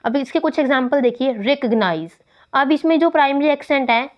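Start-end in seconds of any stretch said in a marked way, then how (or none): 1.3-2.1 रिकॉग्नाइज as "REK-ug-nize", falling lower after REK; first-syllable stress. Shown as a demonstration. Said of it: "first syllable पर लगी है". (रिकॉग्नाइज के पहले syllable पर ज़ोर)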